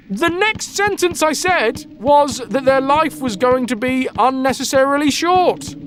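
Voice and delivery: furious druid. Retold or imitated. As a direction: rant at the boy like an enraged old druid. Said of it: "the druid turns up and is like".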